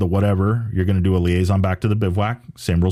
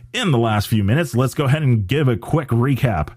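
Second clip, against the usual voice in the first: sports talk radio voice; 5 semitones higher than usual. Pretend. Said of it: "That was my best sports talk radio voice".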